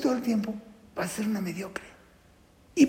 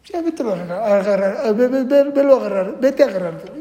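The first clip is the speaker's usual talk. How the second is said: mom telling off; 6 dB louder than usual. Retold or imitated. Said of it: "¿qué le dijo mami?".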